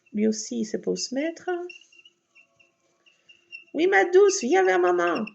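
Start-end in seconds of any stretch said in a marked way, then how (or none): 3.7-5.3 high, loud coaxing call; calling the cat. Real, not acted. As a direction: sing out to the cat to come to mummy.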